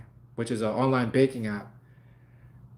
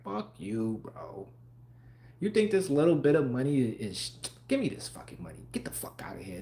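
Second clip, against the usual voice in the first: market's mocking voice; 7 dB quieter than usual. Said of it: "Like, it's like".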